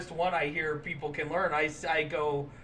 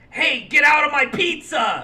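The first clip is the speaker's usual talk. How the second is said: loud, high mock Italian shout; comic Italian accent, shouted; fake Italian accent; 8 semitones higher, 9 dB louder than usual. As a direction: yell it in a hammed-up Italian accent. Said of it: "Give me your Italian".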